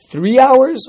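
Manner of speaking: drawn-out, high incredulous question; mock disbelief. Real, not acted. Teacher teasing a student about his three-hour window, mock incredulous. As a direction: stretch it out, pretending to be amazed.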